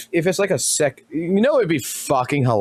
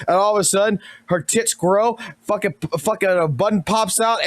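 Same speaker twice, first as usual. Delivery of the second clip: ordinary delivery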